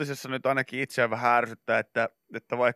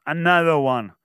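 mock shout in a DJ's style; 2 semitones higher, 5 dB louder than usual. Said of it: "hän huutaa myös".

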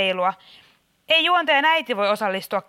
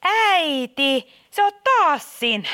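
exasperated recognition; 4 semitones higher, slower than usual. Acted. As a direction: call her out, fed up. Host unmasks mother again.

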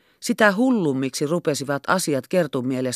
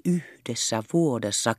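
"Yhdessä vuodessa" said softly, hushed and secretive; 3 semitones lower, 6 dB quieter than usual. A narrator's reading. Captain confiding the wonder to Kerttu, "Yhdessä vuodessa" hushed. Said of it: "alensi ääntänsä kuiskaukseksi".

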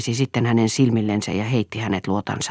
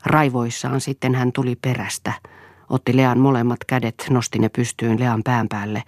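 ordinary delivery

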